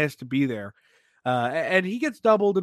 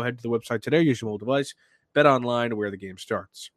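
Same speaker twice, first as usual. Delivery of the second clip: brisk podcast sponsor read; quick, practised ad-reading delivery; 3 semitones lower than usual. Acted. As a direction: rattle through the sponsor copy. Reads a sponsor ad.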